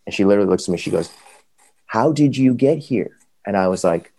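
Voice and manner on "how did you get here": high, slow, worried nurse voice; alarmed nurse. Retold or imitated. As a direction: play the shocked nurse asking slowly. Nurse asks him, alarmed.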